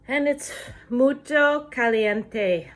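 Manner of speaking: loud and slow, fed up with the heat; complaining about the heat. Real, not acted. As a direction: drag it out, wilting in the heat. Outside after walking up a hill.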